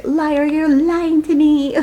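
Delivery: slow, high, hammed-up soap-opera wail; melodramatic accusation. Retelling a book scene, doing her melodramatic accusation. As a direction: overplay the betrayal, slow and high. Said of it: "It's very melodramatic".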